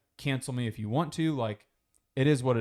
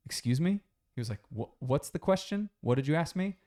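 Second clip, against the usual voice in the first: higher, incredulous asking back; mock disbelief; 4 semitones higher than usual. Andrew acting shocked at the rude question, higher. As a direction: act like you can't believe what you heard. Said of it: "And he's like".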